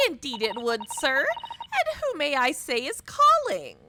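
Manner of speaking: a demure maid at the door; timid maid. Acted. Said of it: "You have outdone yourself".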